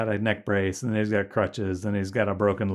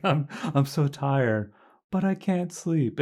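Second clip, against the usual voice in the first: a bit higher, slow mock whine; brain in a jar; 5 semitones higher, slower than usual. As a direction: lightly imitate the brain in a jar. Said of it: "you're like".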